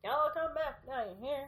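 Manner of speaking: playful Southern American twang; mock Southern American send-off; American Southern accent. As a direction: put on a Southern American hostess. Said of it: "bringing it back to our American accents".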